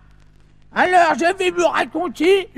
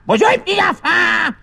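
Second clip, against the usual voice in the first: shouted greeting; 4 semitones higher than usual. Acted. Grandpa leading the children's greeting. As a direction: call out for the countdown. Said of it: "J'ai rien entendu".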